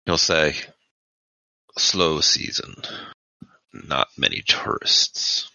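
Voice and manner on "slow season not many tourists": terse clerk. Acted. GM voices clerk.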